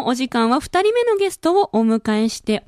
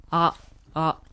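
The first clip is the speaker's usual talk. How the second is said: relaxed natural voice; 3 semitones lower, slower than usual. Shown as a demonstration. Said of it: "あって言ってみる".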